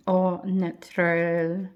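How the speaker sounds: hammed-up French accent, slow; a deliberately bad French accent. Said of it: "That was the worst French accent ever".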